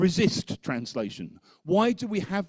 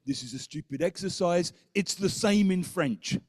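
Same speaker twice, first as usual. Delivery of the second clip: annoyed. Retold or imitated. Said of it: "Jerome got very annoyed and said".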